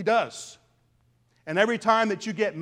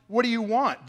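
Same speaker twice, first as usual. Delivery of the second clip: higher mocking jab at "What do you want?"; sarcastic tone; 4 semitones higher than usual. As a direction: throw "What do you want?" back with scorn. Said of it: "in a rather sarcastic tone".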